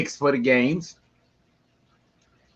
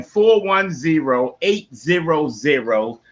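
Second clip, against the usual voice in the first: slow repeat; 3 semitones higher, slower than usual. Shown as a demonstration. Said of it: "Once again".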